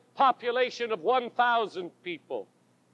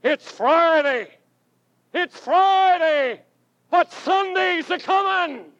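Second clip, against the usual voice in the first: rising, slow, louder preacher's cry; preacher's shout; 5 semitones higher, 4 dB louder than usual. Retold or imitated. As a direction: call it out like a revival preacher. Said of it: "who shouted over and over".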